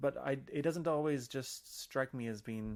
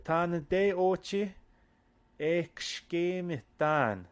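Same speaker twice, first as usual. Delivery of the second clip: very slow question; 4 semitones higher, 4 dB louder, much slower than usual. Pretend. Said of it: "Where do I know you from".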